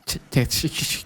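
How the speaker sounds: soft sibilant hissing; hissing s sounds. Shown as a demonstration. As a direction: demonstrate harsh s hiss. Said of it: "yang bagian S S-nya gitu".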